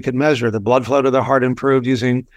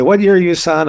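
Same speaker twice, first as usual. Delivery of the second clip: retold brusque senior surgeon, pitched up and louder; higher, louder mock tyrant quote; 5 semitones higher, 3 dB louder than usual. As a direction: lightly act an old-school tyrant questioning a student. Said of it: "a bit of a tyrant".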